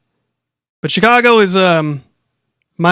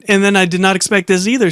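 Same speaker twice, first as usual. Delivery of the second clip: ordinary delivery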